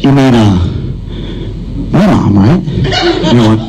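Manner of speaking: lightly voiced smug brother. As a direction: talk down to him, unbothered. Older brother calm, teasing.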